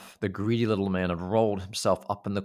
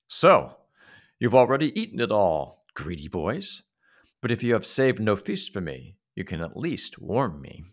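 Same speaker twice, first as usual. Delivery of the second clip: a hint of a rude little man, loud then fading; scolding greedy boys, then demanding; grumbling little man; 3 dB louder than usual. Little man accusing the boys, scolding.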